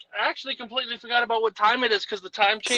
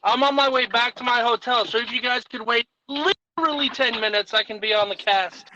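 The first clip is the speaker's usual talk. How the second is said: tin can voice; 2 semitones higher than usual. Real, not acted. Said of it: "You sound like you're in a tin can far away".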